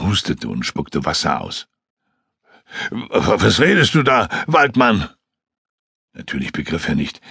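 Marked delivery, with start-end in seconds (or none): 2.9-4.3 a stammering, gasped question; breathless, stuttering disbelief; gasping stammer. Acted. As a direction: stumble out the words as if still short of air. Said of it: "Er schnappte nach Luft".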